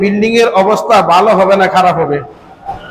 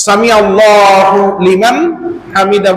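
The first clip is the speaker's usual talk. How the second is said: slow chanted সামি আল্লাহু লিমান; prayer recitation; 2 semitones lower, slower than usual. Acted.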